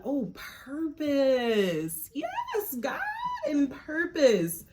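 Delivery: drawn-out, delighted and high. Real, not acted. Reader thrilled to pull the purpose card, slow and high. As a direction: savour the word like a gift.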